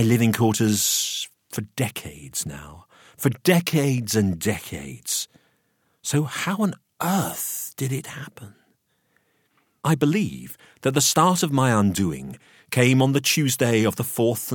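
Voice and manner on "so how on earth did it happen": whisper. A narrator's reading. Narrator's hushed rhetorical question.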